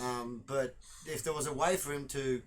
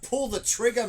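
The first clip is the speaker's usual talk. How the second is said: shouting; 10 semitones higher, 8 dB louder than usual. Real, not acted. Urging the player on.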